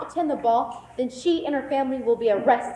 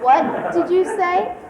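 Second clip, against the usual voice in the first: angry; 3 semitones higher, 5 dB louder, much slower than usual. Acted. Stepmother demands a repeat.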